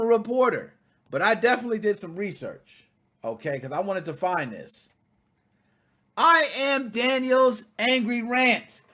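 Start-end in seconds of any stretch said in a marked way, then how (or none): 6.2-8.8 slow, drawn-out reading of a title; slow announcer read of the blog title. Acted.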